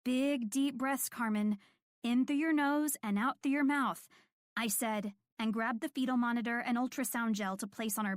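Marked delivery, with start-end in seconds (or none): 0.0-4.1 gentle encouragement. Acted. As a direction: coach her through the contraction, unhurried. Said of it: "I gently encouraged her to breathe through it".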